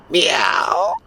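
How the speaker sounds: high put-on cat meow. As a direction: mew like a smug cat. Cat answers Gargamel.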